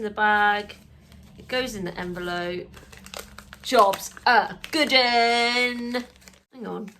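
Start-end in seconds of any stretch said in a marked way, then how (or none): 3.6-6.0 drawn-out satisfied. Real, not acted. Pleased finish of task.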